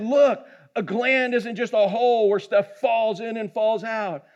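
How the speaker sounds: imitating a doctor, pitch climbing; retold indignant explaining. Doctor correcting a puzzled paddleboard guide, mock-indignant.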